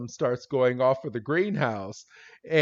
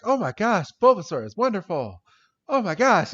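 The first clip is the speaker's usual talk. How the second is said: higher, gushing admiration; imitated delight; 6 semitones higher, faster than usual. Florinda marvels at Bulbasaur's rescue, mock delighted gushing. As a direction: gush like an amazed fan.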